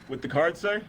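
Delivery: mock-innocent question, rising; sarcastic. Sarcastic soldier asks the officer about the card, mock-innocent. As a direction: needle the officer with fake politeness. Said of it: "My character is very sarcastic".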